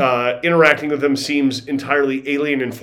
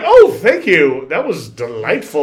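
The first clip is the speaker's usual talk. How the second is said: slow, louder fake gratitude for the gross shot; drawn-out sarcastic thank you, a bit louder; mock polite thanks; 5 dB louder, slower than usual. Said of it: "And I was like".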